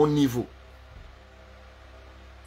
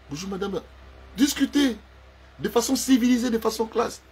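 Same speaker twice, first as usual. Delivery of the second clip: higher, prim refined voice; mock posh lady; 9 semitones higher than usual. Man imitating his elegant partner, prim higher voice. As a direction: speak like a classy lady.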